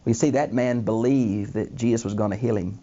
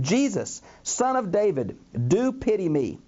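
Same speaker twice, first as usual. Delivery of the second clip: higher-pitched mock cry at ordinary volume; imitated scream; 5 semitones higher than usual. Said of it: "he began to scream".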